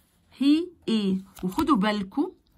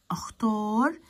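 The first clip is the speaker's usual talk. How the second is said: whisper; slower than usual. Real, not acted. Teacher prompts students.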